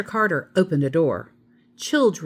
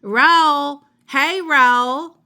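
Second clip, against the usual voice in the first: high, louder call to a bread roll; 9 semitones higher, 6 dB louder, much slower than usual. A narrator's reading. Amelia Bedelia calling a lunch roll by name, loud and high. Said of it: "Now I have to call it".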